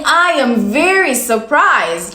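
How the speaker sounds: drawn out slowly, the dull version; teacher showing students the boring phrase, slow; slow flat example. Shown as a demonstration. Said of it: "Instead of saying".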